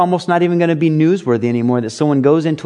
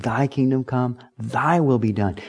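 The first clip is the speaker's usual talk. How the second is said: soft prayer; 2 semitones lower, 6 dB quieter than usual. Shown as a demonstration. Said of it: "taught to pray".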